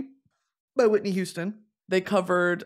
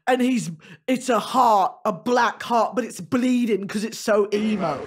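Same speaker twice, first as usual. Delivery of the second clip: lightly voiced drummer; 4 dB louder than usual. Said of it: "and he goes".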